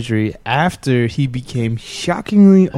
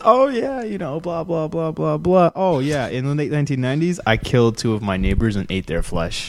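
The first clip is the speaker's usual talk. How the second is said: put-on British accent. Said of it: "your reenactment of a U K cannibal".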